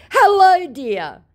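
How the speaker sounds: very high, loud swooping "Hello"; sugary scammer hello. Retold or imitated. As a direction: lure her in sweetly.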